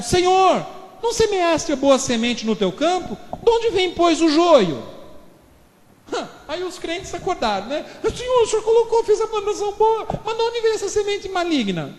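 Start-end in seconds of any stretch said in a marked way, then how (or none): 0.0-4.8 high, loud puzzled servants; servants questioning. Acted. Servants asking their master, high and loud. 8.1-11.9 high, pleading believers' voice; anxious believers. Acted. Believers who just woke up asking the Lord, high and pleading.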